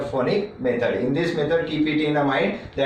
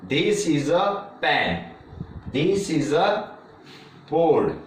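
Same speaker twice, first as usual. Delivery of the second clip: slow example sentences; slower than usual. Shown as a demonstration. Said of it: "For example".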